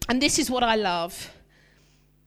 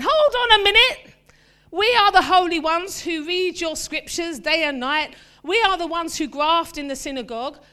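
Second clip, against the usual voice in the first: indignant objection; 3 semitones higher than usual. Retold or imitated. Pharisees objecting to Jesus eating with sinners, indignant. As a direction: protest from self-righteous pride. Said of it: "the scribes and the Pharisees sat there saying".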